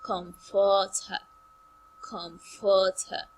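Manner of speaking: "Comfort her" leaning on second syllable; verb stress on COMFORT. Shown as a demonstration. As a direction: draw out FORT in "Comfort her". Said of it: "as a verb".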